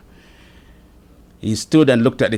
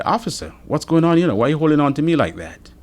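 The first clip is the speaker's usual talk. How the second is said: raised, higher-pitched protest to the officer; retold protest; 8 semitones higher, 5 dB louder than usual. Driver grabbed by officer demands to know why, alarmed protest. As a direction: plead for an explanation, louder and higher.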